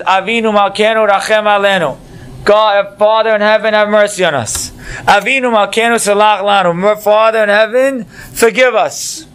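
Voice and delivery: pleading prayer. Acted. Rabbi Akiva pleads with God for rain, lifted pleading voice. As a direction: beg God for mercy, voice lifted. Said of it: "Rabbi Akiva says".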